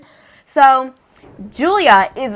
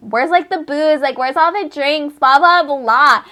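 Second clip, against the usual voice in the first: lightly mocking higher-pitched partygoer whine; complaining partygoers; 4 semitones higher than usual. Partygoers demanding to know where the booze is, mock complaining.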